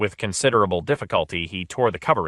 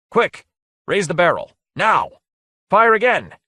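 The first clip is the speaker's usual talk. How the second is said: much higher, loud urgent yells; frantic shouted orders; 11 semitones higher, 6 dB louder than usual. A narrator's reading. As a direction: bark orders in a panic. Lord frantically orders another shot.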